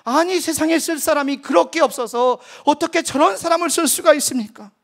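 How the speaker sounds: retold sneer at God's choice; sarcastic. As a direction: needle the Lord with scorn. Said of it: "빈정거렸습니다".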